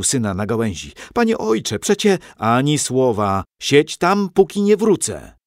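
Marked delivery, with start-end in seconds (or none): 1.1-1.8 high, pleading whine of protest; protesting boy. A narrator's reading. Son sent up a tree, protesting high to father. 1.8-5.4 high, loud scolding; stern order. A narrator's reading. Father ordering son to stay put, loud and stern.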